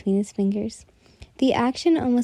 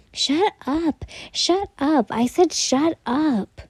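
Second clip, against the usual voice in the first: high, flustered yelling at him; flustered shouting; 6 semitones higher, slower than usual. Acted. Flustered and pushing on his chest, high yelling. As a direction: yell it high, losing your cool.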